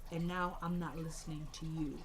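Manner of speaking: low, soft, measured brush-off; acted cold dismissal. Mother dismissing her arrested son, quietly cold. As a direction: drop the voice and shut him out.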